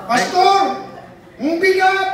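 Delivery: a carrier shouting back to his partner; straining cry. Acted. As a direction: complain loudly about the weight. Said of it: "Bisaya sa unahan".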